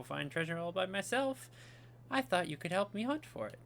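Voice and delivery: lightly voiced princess with lilting rises; letter-writing princess. Princess writing to Mario about a treasure map, lightly voiced. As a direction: read as a princess writing to a friend. Reads Peach's letter in character.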